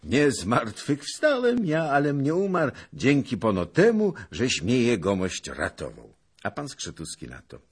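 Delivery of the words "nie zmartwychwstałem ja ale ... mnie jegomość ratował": loud, high eager servant voice; high-pitched, effusive lad reporting in; young servant. A narrator's reading. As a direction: pipe up loudly and gratefully.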